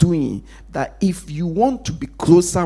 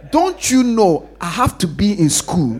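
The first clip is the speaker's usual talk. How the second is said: daughter's inner retort; 3 semitones higher than usual. Acted. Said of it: "she will say it in her head".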